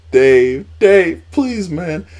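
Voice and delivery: high, loud mock pleading; pleading Rey imitation. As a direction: beg Dave in a squeaky imitated voice. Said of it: "He's like".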